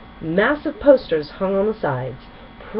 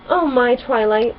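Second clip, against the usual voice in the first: higher, louder delighted squeal; 6 semitones higher, 5 dB louder than usual. A narrator's reading. Rarity to Twilight about the glowing necklace, squealing. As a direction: gasp with delight. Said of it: "Rarity squealed".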